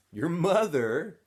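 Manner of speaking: mocking laugh. A narrator's reading. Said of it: "laughed Squid".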